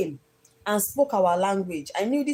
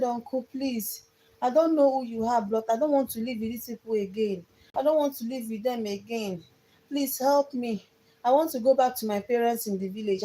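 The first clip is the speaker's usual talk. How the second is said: pleading higher, slowing on please, a touch of tears; retold tearful pleading; 4 semitones higher than usual. Girl begging her relative to rescue her, tearful plea. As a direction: beg the uncle to take you away, mildly tearful. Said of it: "I was crying".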